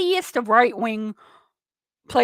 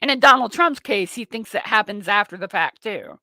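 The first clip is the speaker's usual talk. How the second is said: normal talking voice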